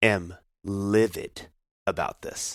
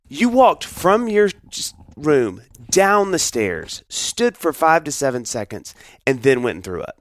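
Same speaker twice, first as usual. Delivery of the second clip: incredulous lecture; 6 semitones higher than usual. Retold or imitated. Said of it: "I was like".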